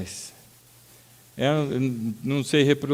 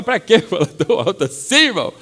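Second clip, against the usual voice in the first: laughing "what for?"; 4 semitones higher than usual. Retold or imitated. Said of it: "Você fala".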